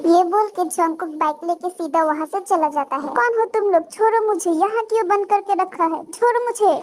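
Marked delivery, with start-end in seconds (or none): 3.1-6.8 high-pitched frightened protest; panicked captive. Acted. Captive demands release from kidnappers, acted panic.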